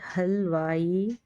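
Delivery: very slow, joining the syllables; slow blending. Shown as a demonstration. Teacher slowly blending syllables for students. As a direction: draw the word out as you blend it. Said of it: "हे लाम हल".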